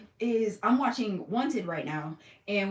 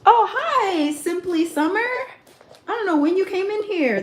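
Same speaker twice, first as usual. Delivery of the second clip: excited greeting; 9 semitones higher, 7 dB louder, slower than usual. Real, not acted. Greeting chat viewer.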